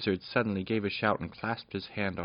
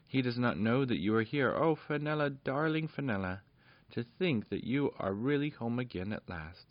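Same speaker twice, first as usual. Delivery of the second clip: tender joyful mother; 4 semitones higher than usual. Acted. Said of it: "who was weeping for joy too".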